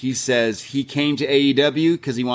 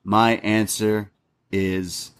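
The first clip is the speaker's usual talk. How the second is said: slow build to a breathy "yes"; a wrestler's dramatic acceptance; dramatic answer; 3 semitones lower than usual. Retold or imitated. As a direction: lower and hushed for the payoff. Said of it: "he says".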